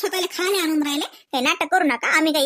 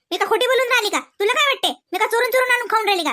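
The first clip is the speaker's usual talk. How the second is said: higher, offended rapid questions; indignant denial, pitched up; indignant protest; 4 semitones higher than usual. Acted. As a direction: fire back, insulted. Accused of stealing, protests.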